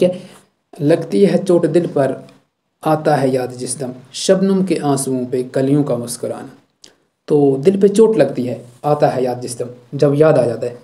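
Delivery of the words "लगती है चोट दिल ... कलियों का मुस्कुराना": poem recitation. Acted. Teacher recites poem verse.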